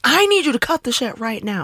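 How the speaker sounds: high, mock-stern scolding; half-strength retold yell at a kid. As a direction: snap at a misbehaving nephew, toned down. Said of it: "I was yelling at him".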